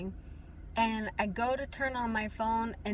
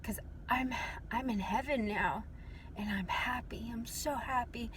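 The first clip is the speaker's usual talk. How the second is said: tender reassurance; 9 dB quieter than usual. Retold or imitated. Father in dream reassures daughter.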